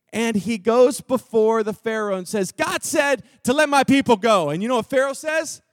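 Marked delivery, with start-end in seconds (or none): 2.5-4.5 louder proclaiming demand; demanding Moses. Acted. Moses before Pharaoh, loud demand. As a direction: call it out to Pharaoh.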